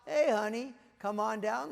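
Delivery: mild holler to his wife, easing off. Acted. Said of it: "he hollers out".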